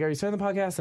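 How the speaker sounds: imitating friends. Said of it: "but they're like".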